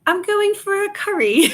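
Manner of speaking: playful English imitation; British accent. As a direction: say it like an English person. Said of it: "people from England say".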